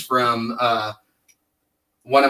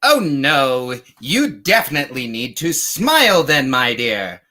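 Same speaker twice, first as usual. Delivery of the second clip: charmer voice. Retold or imitated. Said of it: "it's like".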